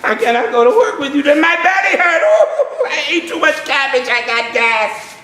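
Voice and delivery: moaning, groaning excuses; lazy cockroach faking a bellyache to skip work; whiny sick cockroach. Acted. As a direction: play-act a sick bug. Cockroach feigns sickness.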